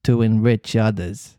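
lightly voiced cat echoing; cat repeating. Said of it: "repeated the cat".

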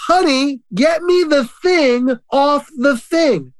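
high, drawn-out mock yell; imitated calling out. Wife calling to her husband from the other room, mock yell. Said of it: "she yelled out".

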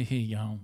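"Here you go" slurred together as one word; "Here you go" with the words merged; run into one word. Shown as a demonstration. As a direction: squash "Here you go" into a single Australian greeting. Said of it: "He makes that one word".

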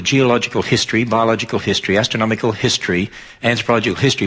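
"history" given deliberate weight at each phrase end; stress on history. Shown as a demonstration. Preacher listing kinds of history for the congregation, stress on "history". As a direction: lean on "history" every time it comes round. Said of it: "you notice I emphasize the word history".

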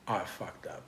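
very soft, low admission to oneself; hushed, low, retold dismay; sinking realisation. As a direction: drop right down, as if it just dawned.

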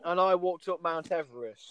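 sarcastic. Real, not acted. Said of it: "I was being sarcastic".

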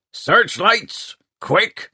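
high, urgent command to the crew; pirate boss calling for action; urgent order. A narrator's reading. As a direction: call it out as an emergency order. Pirate mayor orders crew under attack.

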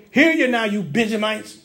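acted berating of his own people; mildly worked-up accusing questions. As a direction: challenge them indignantly as an aggrieved king. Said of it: "So he's berating his people".

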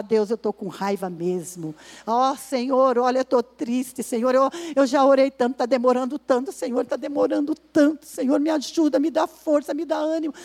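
honest prayer. Retold or imitated. Prays alone in her room.

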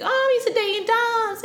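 high, put-on voice for the guy; mimicking him. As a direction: toss off his line in a lifted mock voice. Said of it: "and he's like".

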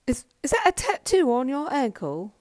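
a hint of Charlie, peering from the face cradle; imitating Charlie.

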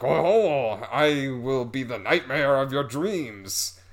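lightly hammed-up villain with French accent; mock a menacing French accent; bad French accent. Spider man threatening the woman, bad French accent. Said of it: "again with the bad French accent".

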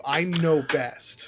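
slow, drawn-out smug I know best; smug know-it-all. Retold or imitated. Quoting a pompous chef, slow and smug. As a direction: stretch it out like an arrogant chef. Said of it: "an attitude of".

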